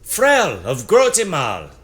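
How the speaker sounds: high, loud solemn sentencing. A narrator's reading. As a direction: pronounce the verdict, loud and high. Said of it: "Zephanon raises his voice".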